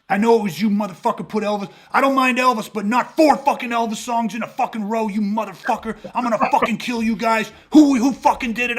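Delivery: acted-out drunken tirade over music; freaking out. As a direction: rant at the whole table like the angry guy. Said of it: "the guy starts freaking out".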